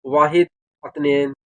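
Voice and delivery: वाहिद, अतनेन spelled out slowly for beginners; teaching Arabic numbers to freshers, slowly; slow counting demo. Shown as a demonstration. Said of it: "दस तक आपको ये गिनती बता देता हूँ".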